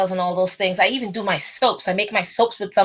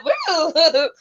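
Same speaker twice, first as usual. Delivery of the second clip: high, light laughing "woo"; playful whoop; 7 semitones higher than usual. Shown as a demonstration. Host showing how it all came together, playful whoop. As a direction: let out a high whoosh of a laugh. Imitates things falling into place.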